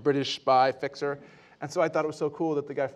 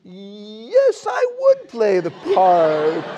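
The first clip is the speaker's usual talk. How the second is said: eager; 5 semitones higher, 7 dB louder, much slower than usual. Retold or imitated. Eager acceptance, joking.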